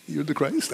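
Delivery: soft "You're the Christ", rising on Christ as if asking; answering with a question. Shown as a demonstration. Preacher as Peter answering Jesus, "Christ" rising into a question. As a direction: say "You're the Christ" quietly, voice lifting on "Christ". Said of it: "answer the question with a qu-, question".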